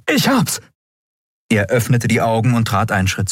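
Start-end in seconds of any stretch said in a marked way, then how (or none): 0.1-0.6 high, bright cry of success; triumphant. Acted. Kai opens the Nexus, high triumphant cry. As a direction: burst out with relief.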